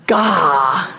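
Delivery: a demo of a breathed-out Gah; breathy gasped Gah. Shown as a demonstration. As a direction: pull in a gasp, then breathe out Gah. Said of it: "kinda like breathing".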